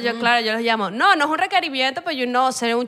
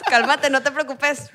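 slow, tentative Honduran accent; slower than usual. Shown as a demonstration. Guest copying how Hondurans supposedly talk, slow Honduran accent. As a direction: try out a drawn-out Honduran accent. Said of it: "¿hablan así?".

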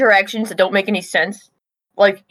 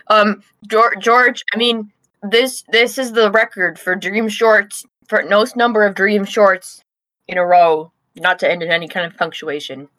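mouth full. Real, not acted. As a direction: still chewing while talking. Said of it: "I'll just talk while I chew".

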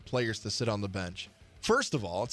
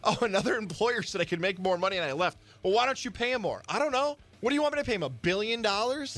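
higher incredulous employer voice; mocking an exasperated employer, pitched up; mock exasperation; 7 semitones higher than usual. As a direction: play a baffled boss.

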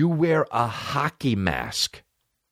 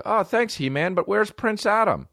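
cartoon character; 11 semitones higher than usual. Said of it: "they'll be like".

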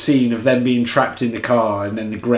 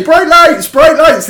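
high, loud squeaky creature cry; gremlin voice; 9 dB louder, slower than usual. Retold or imitated. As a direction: shriek it like a gremlin that hates light. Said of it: "It'll say".

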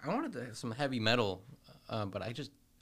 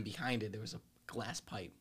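whisper; 7 dB quieter than usual. Real, not acted. Secret crack pipe story, both whisper.

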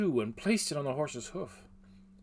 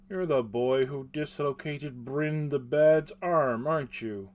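rough grunting blacksmith; 6 dB louder than usual. Acted. Smith confronts boy.

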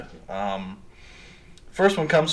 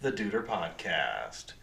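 ringmaster; 2 semitones higher than usual. Acted. Opens the show like an announcer.

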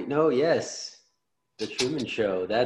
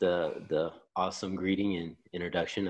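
deep radio voice; 4 semitones lower than usual. Pretend. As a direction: drop into a smooth radio voice. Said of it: "his voice went down an octave".

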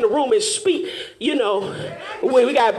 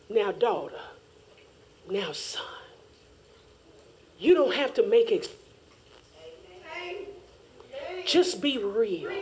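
God's voice; 8 dB quieter than usual. Pretend. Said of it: "God is sitting there saying".

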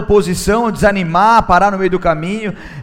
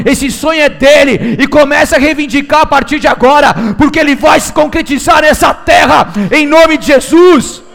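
rising, fervent preacher's call; preaching building to a shout; 4 semitones higher, 7 dB louder than usual. Acted.

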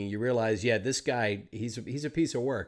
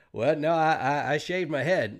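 louder, stammering reply; flustered protest; 2 semitones higher, 4 dB louder than usual. Retold or imitated. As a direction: push back, caught off guard. Actor protesting to shocked producer.

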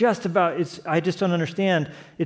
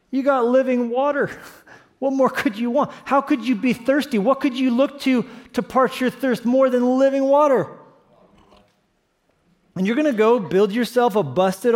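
incredulous preaching; 7 semitones higher than usual. Real, not acted. Preacher incredulous at Israel's folly.

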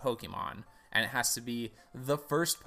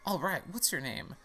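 professor character; 5 semitones higher than usual. Acted. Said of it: "I need a voice for this guy".

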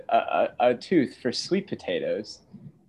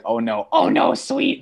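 much higher, sweet motherly voice; mom voice; 5 dB louder than usual. Retold or imitated. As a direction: play mom gently correcting her son. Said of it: "This is my mom voice".

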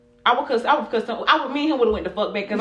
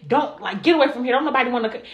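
mock scolding a bystander away; retold scolding; 3 semitones higher, faster than usual. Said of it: "He literally tried to scold her".

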